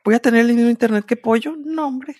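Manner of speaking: high, fast indignant disbelief; scoffing at the idea, fast and high; mock outrage.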